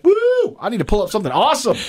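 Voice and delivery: high-pitched mock-excited woo; acted-out excitement. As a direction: whoop it up, pitched high and quick. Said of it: "I'm like".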